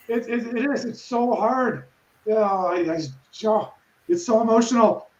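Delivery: choked up and quiet, close to tears; fighting back real tears; words catching in the throat; voice breaking. Real, not acted. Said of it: "I'm gonna cry again".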